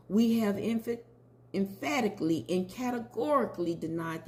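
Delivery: proclaiming the celebrity's statement with emphasis; reading a public statement. Retold or imitated. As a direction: read it like a defiant press release. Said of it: "I like to read it, if I may".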